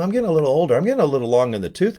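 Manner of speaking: a hammed-up whine about aging; mock old-man whine. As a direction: play it up like a creaky old-timer.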